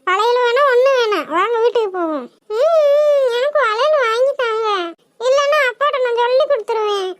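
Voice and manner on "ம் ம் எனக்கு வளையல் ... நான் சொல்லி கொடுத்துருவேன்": acted crying. Daughter whining to mother for bangles, crying. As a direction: sob out the plea for bangles. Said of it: "என்னத்துக்குடி இப்ப அழுகுற".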